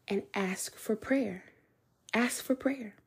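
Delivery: soft unvoiced whisper; a gentle whispered nudge; whispered prompt. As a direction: whisper it like an inner voice. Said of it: "the Holy Spirit said".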